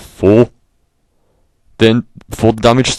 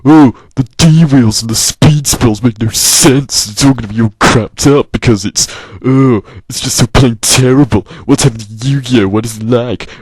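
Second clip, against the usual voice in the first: mock moaning fan; 3 semitones higher than usual. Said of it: "a load of people moaning that".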